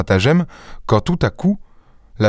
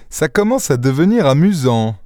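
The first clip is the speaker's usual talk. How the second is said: sneering; 5 semitones higher than usual. Acted. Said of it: "ricana Lupin".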